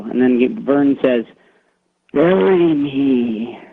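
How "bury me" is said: slow eerie ghost voice; scary voice. Retold or imitated. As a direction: drag it out like a ghost. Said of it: "really scary voice".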